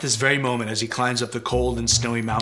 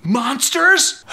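slow, much higher and louder on monsters; dramatic reveal; 13 semitones higher, 7 dB louder than usual. A narrator's reading. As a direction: draw out the word like a spooky secret. Spooky question to children.

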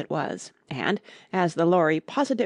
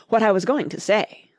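offended; 3 semitones higher, 3 dB louder than usual. Acted. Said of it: "in an offended tone".

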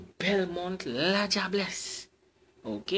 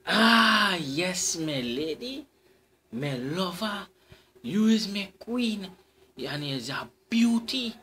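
anxious suitor; 3 semitones higher, 4 dB louder than usual. Acted. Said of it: "The anxious man replied".

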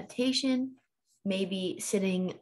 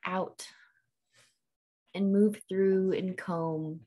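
guided meditation. Real, not acted. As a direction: ease them into letting go, unhurried. Guides listeners into settling the body.

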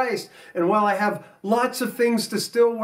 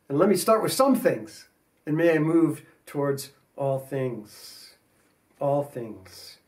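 spoken prayer. Acted. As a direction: pray it out humbly to the Lord.

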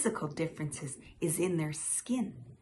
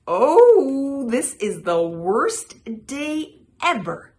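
high, loud wailing fly; squealing; 8 semitones higher, 13 dB louder than usual. A narrator's reading. Fly caught by two tongues, squealing high and loud. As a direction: squeal it out in hammed-up distress. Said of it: "squealed the fly".

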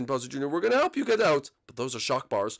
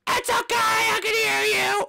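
loud squeal; 4 dB louder, slower than usual. Acted. Jenny shouts reply.

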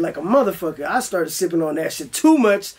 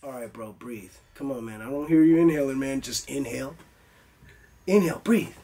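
much softer, lower coaxing to himself; hushed self-coaching; 6 semitones lower, 5 dB quieter than usual. Retold or imitated. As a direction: talk yourself down quietly.

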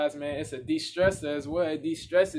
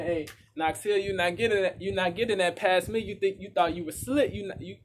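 louder, higher, calling the artist out with delight; excited callout; 4 semitones higher, 5 dB louder than usual. Real, not acted. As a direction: call him out like you caught his trick. Catching the callback to his song.

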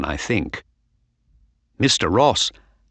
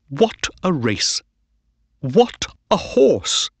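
delighted; 7 semitones higher than usual. A narrator's reading. Owner delighted after win.

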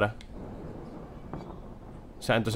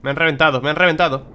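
raging gamer; 5 semitones higher, 6 dB louder than usual. Real, not acted. Killed in game.

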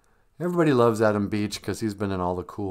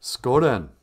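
punchy, louder rallying call; battle call; 5 dB louder than usual. Shown as a demonstration. Host demonstrates rez slang as a battle call, rallying. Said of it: "it can be a call to, to battle".

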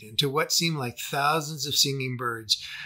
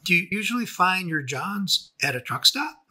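calm and worldly; 6 semitones higher than usual. Acted. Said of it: "trying to sound calm and worldly".

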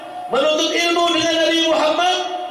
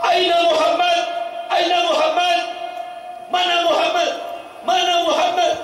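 badui shouting; 3 semitones higher than usual. Desert man running in, shouting for the Prophet. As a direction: shout the question across the crowd. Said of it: "berteriak-teriak".

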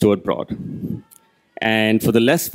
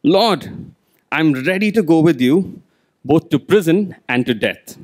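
Peter, fired up and a little higher; eager Peter; 4 semitones higher than usual. Retold or imitated. Peter answering Jesus all fired up, eager pledge. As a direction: sound ready to follow to death. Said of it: "Peter says to him".

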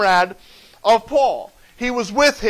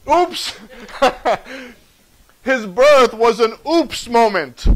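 playful oops; 3 dB louder, slower than usual. Acted. Acting out an accidental birth.

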